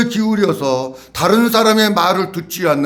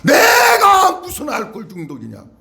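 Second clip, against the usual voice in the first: angry denial; 4 semitones higher than usual. Retold or imitated. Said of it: "버럭 소리를 지르지".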